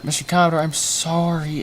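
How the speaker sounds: high-pitched apology with a Canadian "sorry". Acted. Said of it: "I did the Canadian sorry".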